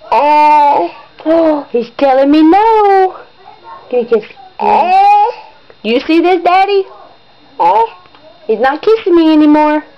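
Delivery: high, whiny fake sob of hurt feelings; mock crying. Mom to baby refusing kisses, playful mock crying. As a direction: pretend to be heartbroken, hammed up.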